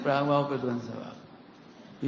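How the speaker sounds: slow it down after saying it too fast; slowed repeat. Shown as a demonstration. Preacher repeats a fast phrase slowly so listeners can note it. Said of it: "जल्दी कह गए".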